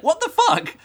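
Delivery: high, loud, laughing disbelief; squeaky laughing what-the-fuck; baffled exclamation. Retold or imitated. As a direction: blurt it out half-laughing in disbelief. Reader's baffled reaction, quoted.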